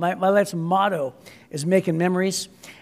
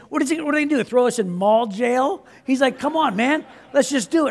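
higher, egging-on friend; teasing dare; 4 semitones higher than usual. Retold or imitated. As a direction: push him, higher and scoffing. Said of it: "And he goes, he's like".

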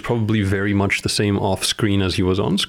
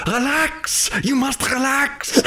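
put-on high slow German-accented command; high German accent commanding relax; mock German guru; slower than usual. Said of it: "does fit with that is German".

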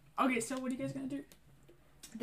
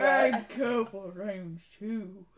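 put-on gruff old man; 7 dB louder, much slower than usual.

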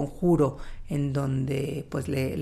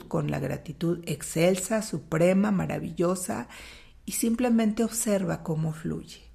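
right in your ear; 2 semitones higher than usual. Acted. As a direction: lead them gently into calm. Guided gratitude meditation, eyes closed.

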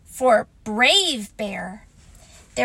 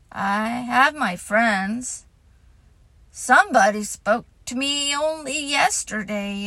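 gloomy Eeyore. Acted.

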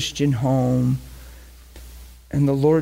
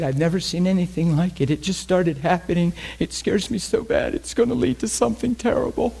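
imitated tearful fear; 4 semitones higher than usual. Frightened mother telling pastor about her son's rages, mildly tearful imitation. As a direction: voice climbing higher as fear mounts. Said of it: "she's bawling because she's afraid".

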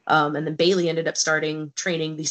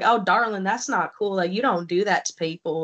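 lightly voiced Southern gentlemen scolding kindly; mild Southern accent, gently disapproving. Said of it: "in their sweet Southern accents".

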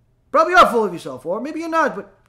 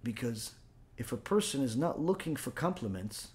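much softer and lower; hushed reflection; 5 semitones lower, 9 dB quieter than usual. Acted. Rabbi softly explaining how ridicule builds humility. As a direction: let it fall to a near hush.

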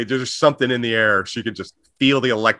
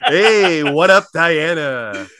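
bedroom voice. Acted. Husband sweet-talks wife about silk sheets, bedroom voice. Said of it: "I'm gonna use my bedroom voice".

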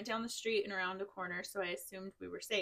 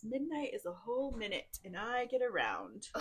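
put-on drunken slur; 2 semitones higher than usual. Reader voices drunk buddy boasting of kisses, light mock slur. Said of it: "manages to slur out the words".

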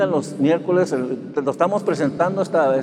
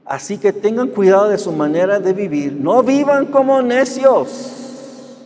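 emphatic scripture reading; 5 semitones higher, 4 dB louder than usual. Shown as a demonstration. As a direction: proclaim the verse and drag out No vivan como necios. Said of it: "¿Sí escucharon eso?".

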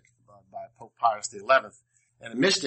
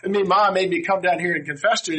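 put-on explaining boy; 6 semitones higher, 4 dB louder than usual. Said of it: "He goes".

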